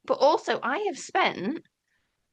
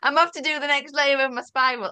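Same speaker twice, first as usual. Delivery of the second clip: louder and higher, hamming it up; mock grand announcement; 4 semitones higher, 3 dB louder than usual. Real, not acted. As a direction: proclaim the spiritual quest with a wink. Repeats the joke line.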